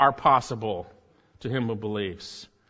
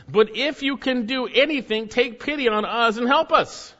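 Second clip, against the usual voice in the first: desperate father's plea; 11 semitones higher, 5 dB louder than usual. Acted. Father begging Jesus for his son.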